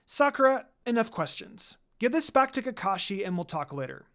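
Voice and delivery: teacher shuts down her student's questions; commanding. Acted. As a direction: cut her off with authority. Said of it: "Lady Tsunade commanded".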